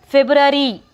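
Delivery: February said as feb-rari, one r sound; correct February. Shown as a demonstration. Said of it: "You have to pronounce it February".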